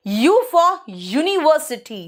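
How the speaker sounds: university drawn out with a yoo; slow teacher example; very slow demo. Shown as a demonstration. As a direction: slowly sound U for university. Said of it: "यू आया".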